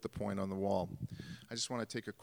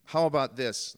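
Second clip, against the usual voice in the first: calling out; 4 semitones higher, 10 dB louder than usual. Retold or imitated. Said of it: "he points ... and he says".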